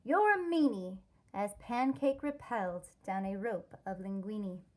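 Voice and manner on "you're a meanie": put-on higher, louder childish yell upward. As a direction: shout it up at her like a sulky kid. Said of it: "yelled up".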